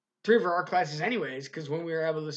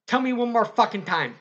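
grandma's threat, louder and higher; furious grandma; 5 semitones higher, 5 dB louder than usual. Retold or imitated. Grandma challenging the Spanish teacher, furious shout.

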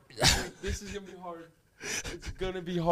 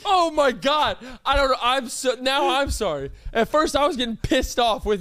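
laughing; 8 semitones higher, 5 dB louder than usual. Real, not acted. High loud laugh-talk.

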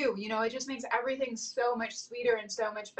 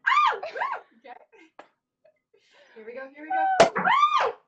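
high shrieking squeals, laughing and yelling; thrilled shrieks; 6 dB louder than usual. Real, not acted. Couple celebrating their million, thrilled shrieks. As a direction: shriek with joy as the cork goes.

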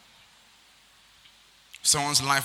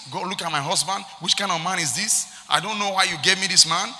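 hammed-up grumbling to God; mock a fed-up wife griping in prayer; complaining prayer; 4 dB louder than usual. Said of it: "we are complaining".

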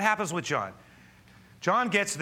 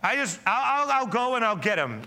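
Mary's desperate offer; 8 semitones higher, 6 dB louder than usual. Acted. Mary offers to fetch body.

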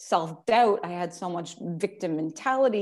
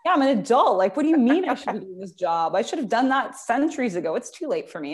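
louder, defensive excuse-making; loud incredulous excuses; mock protest; 4 semitones higher, 4 dB louder than usual. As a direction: protest it like the idea is absurd. Retelling her excuses to therapist.

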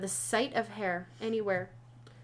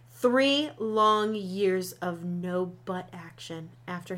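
dramatic reading; 4 dB louder than usual. Acted. Reads blurb in announcer style.

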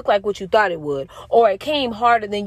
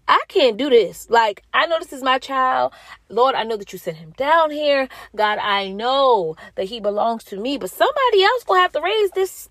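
lightly acted exasperation, pitched up; exasperated plea; 5 semitones higher than usual. Mother telling God she can't raise this kid, mock exasperated. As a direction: replay an overwhelmed plea, higher than usual.

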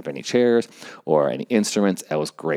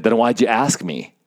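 higher, condescending retort; demeaning tone; 4 semitones higher, 4 dB louder than usual. Retold or imitated. Band director answers helper in front of everyone, demeaning. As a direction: imitate someone putting you down. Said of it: "demeaning tone of voice".

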